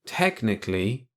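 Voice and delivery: through his fingers; muffled. Acted. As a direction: talk muffled behind hands. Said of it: "speaking through his fingers".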